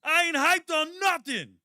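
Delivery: retold outburst at teammates in the locker room, shouting; outraged shout. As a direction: blow up at the music. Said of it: "I said".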